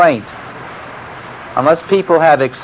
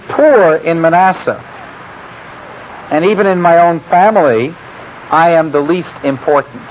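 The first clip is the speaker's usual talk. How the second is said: pleading Gideon; 4 semitones higher than usual. Acted. Gideon protests to God.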